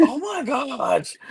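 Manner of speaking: mock-amazed, stretching each word; slow breathy-free mock awe; slow amazed coo. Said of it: "Her and Jujubee are like".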